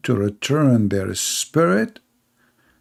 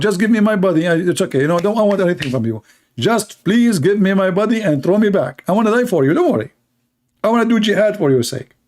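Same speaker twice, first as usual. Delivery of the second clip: higher, whiny pleading; mock desperate plea to go back; begging martyr; 5 semitones higher, faster than usual.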